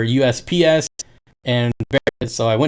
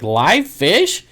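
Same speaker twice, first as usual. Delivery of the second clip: customer asking; 5 semitones higher than usual. Retold or imitated. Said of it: "That's what they say every time".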